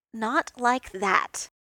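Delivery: a firm, drawn-out self-rebuke; loud slow self-scolding. Acted. Tony scolds his own brain.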